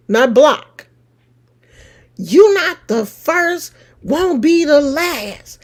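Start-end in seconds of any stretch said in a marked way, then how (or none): none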